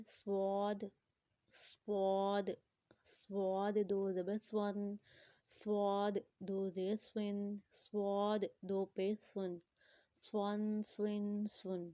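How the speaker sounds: سواد and سون with a thick, whistling S; heavy whistled S. Shown as a demonstration. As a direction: round out the hissing S in every سون. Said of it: "موٹا کر کے پڑھیں گے".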